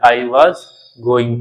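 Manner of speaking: Indian-accented "was" as vaaz; Indian village accent. Shown as a demonstration. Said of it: "कोई लोग was बोलते हैं". (भारतीय लहजे में "was" को वाज़)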